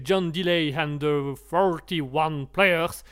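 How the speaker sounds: band name in a careful English accent; slow, deliberate English accent. Shown as a demonstration. French host proudly putting on an English accent. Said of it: "je fais les accents anglais".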